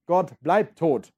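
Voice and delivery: very slow, weighty delivery; slow and grave. Acted. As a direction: let each word land. Teacher reads madman speech aloud. (sehr langsam und schwer)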